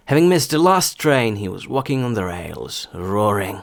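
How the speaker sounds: example sentence in a connected flow; стандартна швидкість. Shown as a demonstration. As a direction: read it through at a steadier, normal pace. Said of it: "а потім вже зі стандартною швидкістю". (зв'язно, у звичайнішому темпі)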